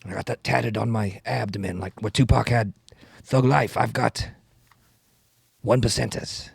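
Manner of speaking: lightly voiced rapping senator; deadpan boast in a politician's put-on accent; Bernie Sanders. Politician describing his tattoo, light impression. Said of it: "rapping Bernie Sanders".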